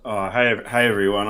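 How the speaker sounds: jumping in too excited to wait; excited greeting. Real, not acted. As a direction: burst in with excitement. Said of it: "I was too excited".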